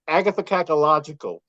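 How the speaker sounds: "Agatha Cacalogical" slowly and clearly; careful, deliberate "Agatha Cacalogical". Shown as a demonstration. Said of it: "Can you say it slowly".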